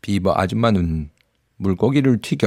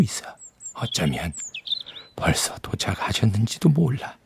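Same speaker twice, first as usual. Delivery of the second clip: lowered voice. Acted. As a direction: hush it, lean in close. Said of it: "비버는 갑자기 목소리를 낮췄어요".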